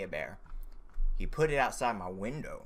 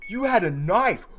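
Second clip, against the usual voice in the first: very high, loud shriek; startled scream; 8 dB louder, slower than usual. Real, not acted. Player seeing the bear's knife, startled high screaming. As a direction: shriek in shocked disbelief.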